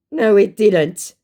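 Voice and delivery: drawn out like a clueless fool; dim scammer voice. Retold or imitated. Retelling the scammer's reply, slow mock idiot.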